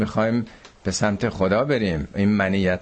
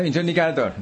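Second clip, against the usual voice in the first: sharp, raised mock-angry "نگه دار" with a higher pitch; retold angry order; 6 semitones higher, faster than usual. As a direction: imitate the irritated passenger snapping to stop the car. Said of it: "با یه عصبانیتی گفت". (تقلید عصبانی مسافر)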